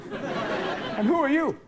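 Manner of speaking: slow, high puzzled question; lightly voiced dazed dad. Dazed dad meeting his son, slow and puzzled. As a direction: draw it out, baffled.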